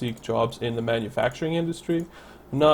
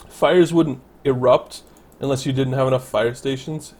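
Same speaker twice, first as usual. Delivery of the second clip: ordinary talk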